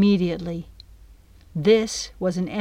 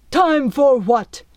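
startled question; 6 semitones higher, 6 dB louder, slower than usual. Acted. Captain startled by dragon.

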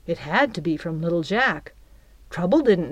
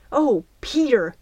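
crying out; 5 semitones higher than usual. A narrator's reading. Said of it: "she cried as she flew".

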